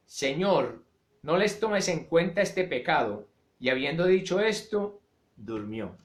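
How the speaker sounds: measured, solemn Bible reading; scripture reading. Acted. Preacher reading Acts to the congregation, solemn. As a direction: read the passage with weight.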